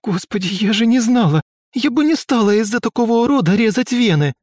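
desperate crying. A narrator's reading. A weeping girl begging in the locked taxi. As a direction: wail it out in regret.

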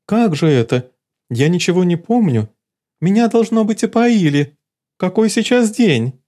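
high, agitated cat princess; panicking, confused; rising high-pitched alarm. Acted. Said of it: "с лёгким криком отскочила".

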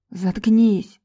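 a sharp barked order. A narrator's reading. Raza barking at Val to shut up, a sharp bark. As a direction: bark it at her. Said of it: "рявкнул Раза".

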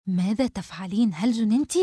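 understated, held-back anger; suppressed irritation. Acted. Mona turning on her friend, tense and suppressed. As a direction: scold while keeping the temper contained. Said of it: "وقالت بعصبية مكبوتة".

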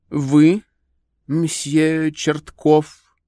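high, slow, gushing lady; society lady voice. A narrator's reading. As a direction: play the fussy society lady. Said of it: "сказала дама".

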